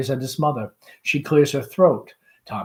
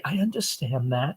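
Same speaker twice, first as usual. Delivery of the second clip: gently; 6 dB quieter than usual. Acted. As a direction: say it gently to mother, quieter. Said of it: "Tom, gently".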